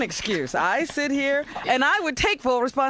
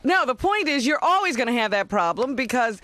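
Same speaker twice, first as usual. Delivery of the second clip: loud sharp voice; 2 semitones higher than usual. Real, not acted. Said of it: "why are you yelling?".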